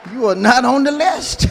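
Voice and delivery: bouncer shouting the refusal; shouted. Shown as a demonstration. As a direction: raise your voice on each word. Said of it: "I'm trying to make it comical".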